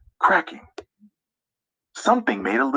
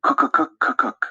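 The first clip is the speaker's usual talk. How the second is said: high birdlike call, pitched way up; woodpecker call; 11 semitones higher than usual. Acted. Narrator voicing the woodpecker in the tree, high bird call. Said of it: "Woodpecker calls from a tree".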